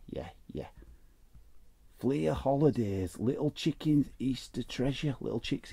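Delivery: ordinary talk, nothing marked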